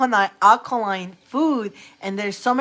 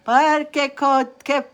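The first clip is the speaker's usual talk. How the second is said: grandmother in Italian; much slower than usual. Retold or imitated. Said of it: "my grandmother will go".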